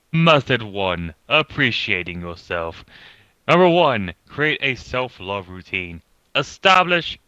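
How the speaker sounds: put-on pompous British accent, reading aloud. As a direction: read it like a pompous British narrator. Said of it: "read it in a pompous British voice".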